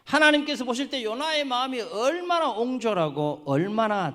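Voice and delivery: high, loud reproachful exclamation; impassioned preaching. Real, not acted. Preacher deplores Jonah's narrow heart, high forceful preaching. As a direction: drive the reproach home from the pulpit.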